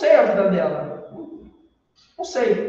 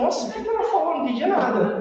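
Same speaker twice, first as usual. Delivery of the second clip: amused confusion; 6 semitones higher, faster than usual. Retold or imitated.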